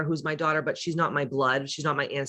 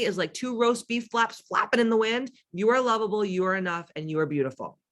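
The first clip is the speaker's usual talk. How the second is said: higher, earnest pep talk; affirming; 5 semitones higher than usual. Real, not acted. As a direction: build them up sincerely. Affirmation to listeners.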